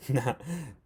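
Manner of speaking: short amused laugh; light chuckle. Real, not acted. Teacher amused by his own joke, light chuckle. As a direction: laugh briefly at the silly choice.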